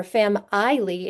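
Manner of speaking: "fam-ily" with the middle vowel said like "eye"; wrong long i. Shown as a demonstration. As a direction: sound out "fam-ily" slowly as fam-EYE-lee. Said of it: "it's not fam-illy or fam-ily".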